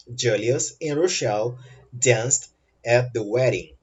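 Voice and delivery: slow, separated phrases; slow model sentence. Shown as a demonstration. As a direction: read it out slowly for learners. Teacher repeats example slowly for learners. (frase-modelo lenta, com pausas)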